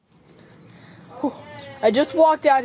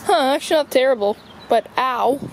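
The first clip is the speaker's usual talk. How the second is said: wincing, feet burning on hot boards; strained, stepping on burning wood; walking on hot deck; 3 semitones higher than usual. Real, not acted. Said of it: "My feet are burning".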